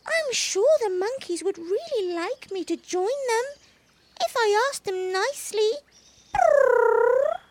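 hopeful little kitten. A narrator's reading. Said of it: "protested Baby Bush Cat".

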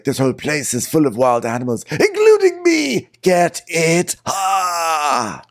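high, swooping, cackling mock Lisa; very high campy quip with a cackle; campy Lisa impression. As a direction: ham up a grande dame's joke. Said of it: "Lisa's like".

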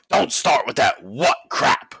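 slow, irritated put-on growl; irritated Vince. Vince scolding the chanting crowd, slow and irritated. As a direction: snap back at the chanting fans, slowly. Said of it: "Vince gets irritated".

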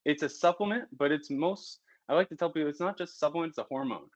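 breathless, panting between words; talking while still catching breath. Real, not acted. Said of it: "Gotta catch my breath".

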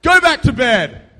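loud, slow, gruff parent; the woken parent sends the kid back, irritated; annoyed parent. Retold or imitated. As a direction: snap it like a tired dad. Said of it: "And what do they say?".

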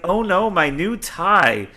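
lightly hammed-up slow lament over a tie; slow mock goon wail. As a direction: stretch it out as a whiny lament. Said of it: "yells the, yells this goon".

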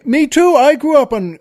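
high, excited "me too"; hammed-up amazed Dubliner; delighted pub fellow. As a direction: yelp it out in delight. Joke character delighted.

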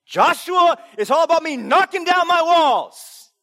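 loud, high mock boast; satirical self-centred believer. Preacher mocking self-centred Bible reading, loud mock boast. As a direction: puff up like a self-absorbed hero. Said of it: "Feel the satire there".

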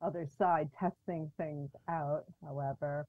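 muffled, bass-heavy audio; muffled sound. Real, not acted. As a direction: dull voice with the highs cut. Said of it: "you sound muffled".

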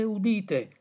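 falling, settled second call; the herald's answering call; town crier. Acted. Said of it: "le laudi di D'Annunzio".

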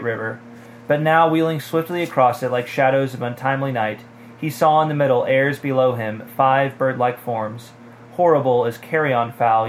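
measured read-aloud narrator delivery; story narration. A narrator's reading. Podcaster reads a fantasy novel to co-host, story narration.

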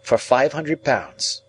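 put-on name the sum in a high young man's voice; impressed young ward. A narrator's reading. Ward tells guardian the sum, high and slow.

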